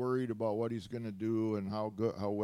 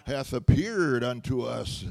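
churchy King James prayer; 7 dB louder than usual. Pretend. Preacher mocking a churchy prayer, booming and lofty. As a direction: ham up a pompous church prayer. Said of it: "your churchy King James prayer".

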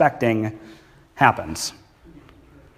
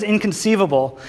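Italian guy's catchphrase; 5 semitones higher than usual. Retold or imitated. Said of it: "who always says".

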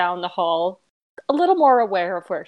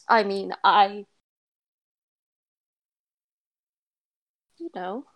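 put-on girl voice. NPC answering awkward question.

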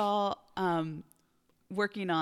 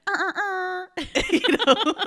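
laughing horn sound; 10 semitones higher, 7 dB louder, slower than usual. Shown as a demonstration. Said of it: "that's how I felt when I was doing the".

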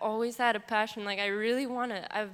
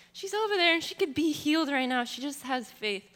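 higher-pitched, mildly urgent retelling; retold urgency; 5 semitones higher than usual. Daughter can't stop thinking about mom, retold urgency. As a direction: replay an urgent thought, starting high.

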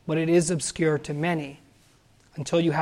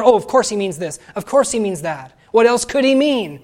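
mock cocksure, building louder at the end; hasty certainty; 3 semitones higher, 5 dB louder than usual. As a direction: jump to it as if it were obvious. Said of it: "we can quickly just jump to conclusions".

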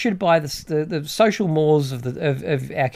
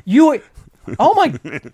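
high, louder, halting mock horror building into accusation; imagined outraged confrontation; 5 semitones higher, 4 dB louder than usual. Imagined comeback to a political staffer, appalled and accusing. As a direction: play the appalled dawning recognition, then scold. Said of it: "say back to her".

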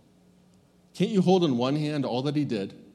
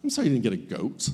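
passive aggressive; 2 semitones higher than usual. Pretend. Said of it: "how passive aggressive I am".

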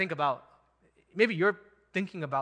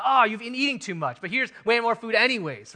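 higher, louder doting grandma scolding; imitating grandma; 7 semitones higher, 6 dB louder than usual. Grandma telling her grown grandson he eats too much, mock scolding. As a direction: fuss over him like a blunt grandma. Grandma comments, offers more food.

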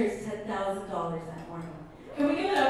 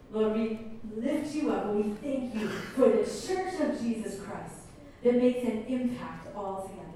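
prayer. Real, not acted. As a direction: lead a congregation in heartfelt prayer. Leads the congregation in prayer.

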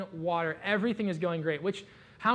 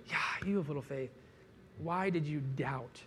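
fond parental chiding; 2 semitones lower, 5 dB quieter than usual. Retold or imitated. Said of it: "It's kind of like a parental".

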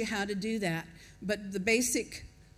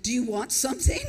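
louder rising question, half laughing; mock insistent clerk; 3 semitones higher, 5 dB louder than usual. Deli clerk finally prompting a confused customer, loud mock insistence. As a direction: imitate a clerk spelling it out loudly.

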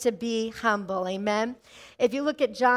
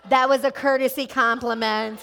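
joking punchline; 5 dB louder than usual. Pretend. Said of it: "I'm like".

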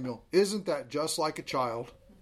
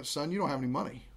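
dry dad; 3 semitones lower, 5 dB quieter, faster than usual. Retold or imitated. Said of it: "I look at him and go".

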